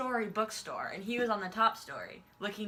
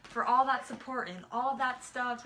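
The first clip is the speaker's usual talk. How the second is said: slow, halting quote of a thank-you; imitated stumbling; 2 semitones higher than usual. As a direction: imitate someone slowly feeling for the words. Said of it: "stumbling on his words".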